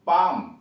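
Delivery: पाम with long aa straight into m; no l before the m of पाम; silent l in पाम. Shown as a demonstration. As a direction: say palm as पाम, no l. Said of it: "यल silent है इसमें".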